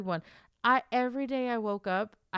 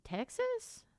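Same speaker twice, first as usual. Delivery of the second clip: high-pitched, softer, questioning guess; confused guess; 12 semitones higher, 5 dB quieter than usual. Acted. American puzzling over a vague location, confused. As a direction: venture it as a baffled question. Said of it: "we're gonna be so confused".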